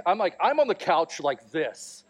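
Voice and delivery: ordinary delivery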